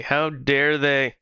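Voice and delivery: slow, indignant mock outrage; mock outrage, drawn out slow. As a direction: stretch it out in fake offense. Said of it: "It's like".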